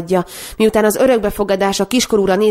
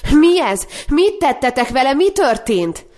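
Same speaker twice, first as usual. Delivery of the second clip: higher, urgent cries through tears; crying out through tears; 7 semitones higher than usual. A narrator's reading. Sister cries out at the brother over the sick baby, tearful. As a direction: call out in tearful horror. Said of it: "potyogó könnyeken keresztül kiáltotta".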